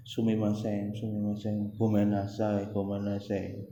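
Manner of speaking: soft, repeated mock apologies; imitated Japanese apology. Imitating a Japanese latecomer saying sorry, softly apologetic. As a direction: murmur apologies like a contrite latecomer. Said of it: "nek wong Jepang".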